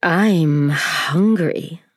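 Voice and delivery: very slow, drawn-out spider voice; slow, menacing spider; spider announcing. Acted. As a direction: let the hunger crawl out slowly. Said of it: "the spider announced suddenly".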